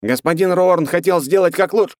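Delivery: high, loud desperate plea; cracked strained voice. Acted. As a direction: beg with a breaking voice. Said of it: "надтреснутым от напряжения голосом".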